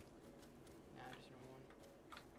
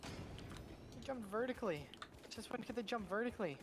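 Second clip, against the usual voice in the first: astonished; 7 semitones higher than usual. Real, not acted. Mob jumps at him.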